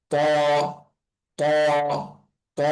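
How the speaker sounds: ত said thick and rounded, "taw"; weight the tongue on ত; full-mouthed, heavy ত. Shown as a demonstration. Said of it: "হবে একটু মোটা করে".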